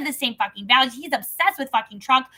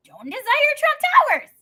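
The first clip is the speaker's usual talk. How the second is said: sarcastic aside; 11 semitones higher, 4 dB louder than usual. Real, not acted. Mocking aside.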